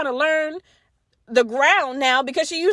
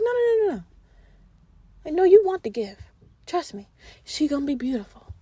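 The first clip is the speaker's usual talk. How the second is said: mocking no-no-no. Mocking the king's refusal.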